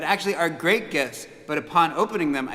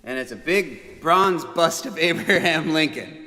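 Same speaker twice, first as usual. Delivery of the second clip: plain with a laugh; 3 semitones higher, 4 dB louder than usual. Real, not acted. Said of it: "It's cool, right?".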